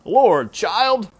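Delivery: put-on father dismissing his begging child; exasperated father. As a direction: scold her off.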